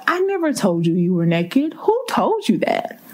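pained, questioning voice of God; voicing God. God asking his children who lied to them, gently pleading.

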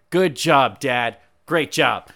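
loud mocking good job; deadpan sarcasm at the father; sarcastic praise. Real, not acted. Podcast host mocks the villain dad, sarcastic praise.

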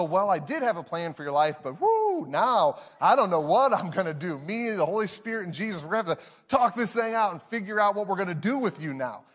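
mock panicked planner, quick at the end; a thrown-off God scrambling for a plan; flustered God. Pastor parodying a God caught off guard, flustered. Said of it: "throw him off and go".

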